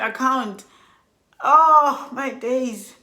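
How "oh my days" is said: exasperated dismay. Retold or imitated. Reliving panic over money.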